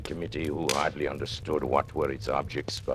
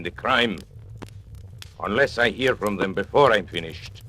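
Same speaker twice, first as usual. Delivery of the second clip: menacing threat; 3 semitones higher than usual. Acted. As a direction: lean into every threat, unhurried. Villain threatens employers over broadcast.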